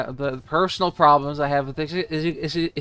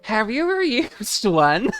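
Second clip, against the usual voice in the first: lightly voiced game character, higher; 5 semitones higher than usual. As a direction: read the line a bit higher. Voicing game dialogue.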